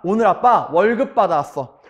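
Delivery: confident announcement in own pitch; proud father. Retold or imitated. Father telling his children of his pay, proud. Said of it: "오늘만큼은 당당한 아빠".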